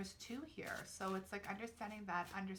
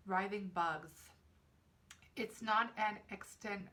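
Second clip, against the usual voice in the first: louder, measured card reading; reading aloud; 4 dB louder than usual. Real, not acted. Reader reciting the card's meaning to viewers, reading aloud. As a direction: read the card's text out with deliberate emphasis.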